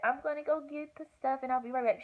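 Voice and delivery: high, light reassuring voice; sweet triage lady. Retold or imitated. Triage lady stepping out briefly, high reassuring voice. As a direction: imitate a nurse soothing a patient.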